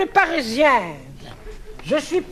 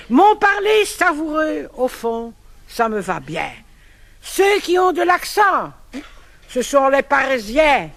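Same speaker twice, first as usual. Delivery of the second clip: poem recital; 2 semitones lower than usual. Acted. Recites verse pastiche on accent.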